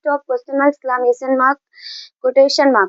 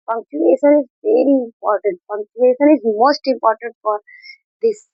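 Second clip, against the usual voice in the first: very slow, word by word; slow dictation; much slower than usual. Shown as a demonstration. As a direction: spell it out slowly for the class. Teacher dictating key sentence slowly. (बहुत धीमे, शब्द-शब्द बोलकर)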